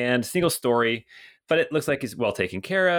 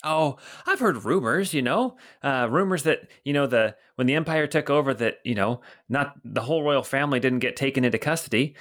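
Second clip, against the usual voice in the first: put-on jolly older guard voice, pitched up; Bert the old guard; 3 semitones higher than usual. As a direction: boom out a cheery hello as a portly guard. Bert gossips about rumors.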